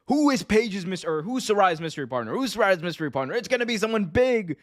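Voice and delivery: high, excited promo hype; hyping it up. Acted. Wrestling host hyping a mystery partner reveal, excited and high-pitched. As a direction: build up the mystery with rapid-fire questions. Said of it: "I want them to hype this up".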